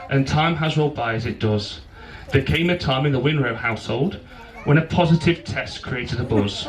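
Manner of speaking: measured rhyming wedding poem; poem recital. Real, not acted. Best man reads his poem to bride and groom, poem recital. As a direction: recite it line by line with pauses.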